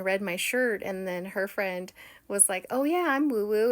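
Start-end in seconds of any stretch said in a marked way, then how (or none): 2.7-3.7 loud, high, eager chime-in; perky retold exclamation; enthusiastic agreement. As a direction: imitate a keen new acquaintance. Acts out the friend's keen reply.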